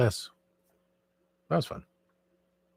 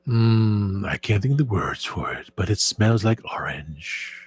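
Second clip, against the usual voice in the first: ASMR voice; slower than usual. Shown as a demonstration. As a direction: savor each word slowly. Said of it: "the A S M R voice".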